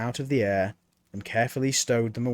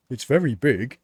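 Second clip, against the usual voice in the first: uncertain; 5 dB louder than usual. A narrator's reading. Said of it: "said Mort uncertainly".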